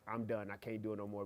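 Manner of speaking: defeated. Retold or imitated. Almost quit the application.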